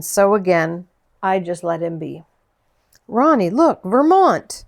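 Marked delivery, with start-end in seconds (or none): 3.1-4.6 excited calling out. A narrator's reading. Child spots plate excitedly.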